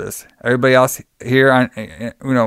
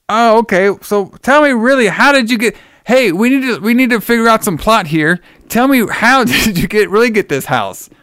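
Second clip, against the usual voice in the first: high woman voice; 7 semitones higher than usual. Retold or imitated. Linda voiced high throughout.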